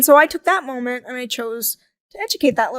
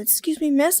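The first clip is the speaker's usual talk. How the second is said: higher-voiced polite little boy; 4 semitones higher than usual. Five-year-old boy approaching a stranger at the park, polite. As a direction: imitate a child asking politely. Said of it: "in the most politely way he could".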